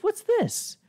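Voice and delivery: high squeaky mock question; a goofy high imitation; mock Van Damme. Retelling the movie, a hammed-up high Van Damme voice.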